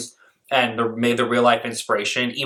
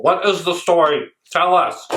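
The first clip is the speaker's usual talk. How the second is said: exasperated; 6 semitones higher, 4 dB louder than usual. Real, not acted. Exasperated demand at video.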